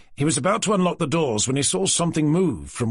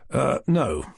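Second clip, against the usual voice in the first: matter-of-fact. Acted. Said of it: "in a matter-of-fact tone of voice".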